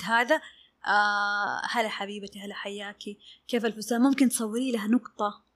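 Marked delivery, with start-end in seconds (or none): 1.7-4.0 soft, soothing greeting to a client; acted gentle check-in, voice kept low; reassuring reply. Dressmaker answering a client to reassure her, soft and reassuring. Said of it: "الرد هذا هيطمنها".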